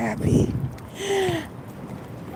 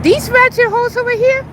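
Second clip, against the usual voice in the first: sudden high, louder sneer; scornful outburst; 11 semitones higher, 5 dB louder than usual. Real, not acted. Mocking demanding dates, a high scornful outburst. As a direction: jab it out with contempt.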